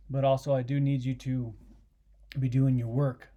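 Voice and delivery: holding in a sneeze, tense; fighting off a sneeze mid-sentence; holding back a sneeze. Real, not acted. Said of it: "I'm trying not to sneeze".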